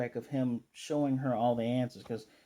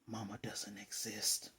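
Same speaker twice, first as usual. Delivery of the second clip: slow and much softer; deadpan quiet; 4 semitones lower, 13 dB quieter than usual. Retold or imitated. Anya tells Papa about the interview, slow and much softer. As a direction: let it drop flat and slow, much softer. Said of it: "she's like".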